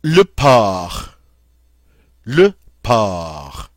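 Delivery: "porc" as "pɔʁ", no C at the end; teacher demo of "Le porc"; silent final C. Shown as a demonstration. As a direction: drop the C in "porc". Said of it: "we don't pronounce the C".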